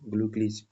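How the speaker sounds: ग्लूकलीज drilled as German glücklich; German pronunciation drill. Shown as a demonstration. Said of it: "अच्छे से pronunciation करना है".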